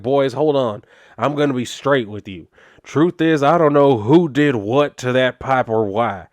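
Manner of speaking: words squeezed out of one side of the mouth; lightly voiced sheriff with chew in his lip, dismissive; tobacco-chewing cop voice. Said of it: "talking like that, 'cause ... sound appears to only be coming out of one side of his damn mouth".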